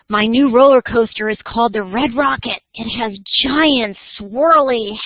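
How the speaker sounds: commercial pitch with punched adjectives; lively announcer-style ad reading; radio ad read. Shown as a demonstration. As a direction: sell it like a radio commercial, hitting the big words. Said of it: "read this like it's an ad".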